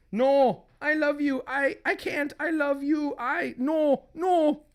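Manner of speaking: high-pitched anguished refusal; distraught wife. Acted. Wife can't kill beloved husband, high anguish. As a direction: refuse desperately, loud on the first no.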